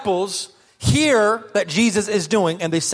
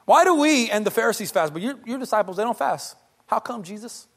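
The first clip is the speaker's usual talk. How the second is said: judgmental whiny disciples. Retold or imitated. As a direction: nag Jesus like a petty complainer. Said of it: "That sound a little judgmental".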